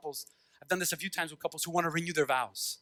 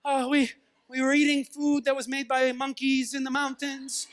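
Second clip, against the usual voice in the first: gushing TV dater; 5 semitones higher than usual. Acted. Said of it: "Like, the date is like".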